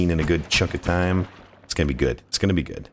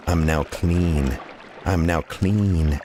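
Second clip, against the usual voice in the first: slow satisfied; much slower than usual. Pretend. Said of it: "clean my little wizard body".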